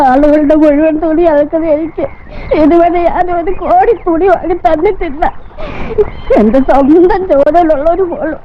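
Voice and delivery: slow, choked-up tearful voice. Acted. Mother moved by her son's gift of clothes, tearful. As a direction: speak haltingly through tears. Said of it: "എന്തിനാ കരയണേ".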